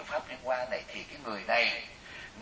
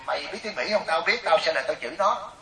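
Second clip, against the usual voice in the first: slightly raised, combative retelling; mock quarrelling; 4 semitones higher, 3 dB louder than usual. Woman challenging another to a cursing match, mock quarrelling. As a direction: imitate someone spoiling for an argument. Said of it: "rủ một cái bà lại để chửi lộn".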